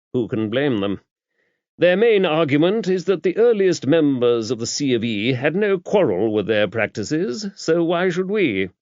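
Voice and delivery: put-on an older churchman explaining with brisk authority; bishop.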